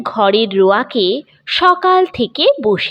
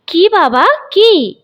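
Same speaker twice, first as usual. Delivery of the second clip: soothing; 8 semitones higher, 3 dB louder, slower than usual. Acted. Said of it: "সান্ত্বনা সুরে বলেন".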